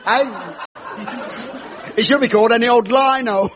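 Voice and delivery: a lightly voiced cheesy stand-up doing his patter; cheesy comic host. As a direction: play the corny club comedian working the crowd.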